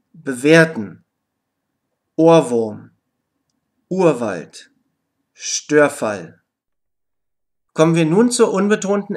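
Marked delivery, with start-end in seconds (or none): 0.1-6.4 vowel R, like "ah", in "Bewerten", "Urwald", "Störfall". Shown as a demonstration. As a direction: model longer words one by one, long vowel gliding into "ah". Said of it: "ein paar längere Beispielwörter".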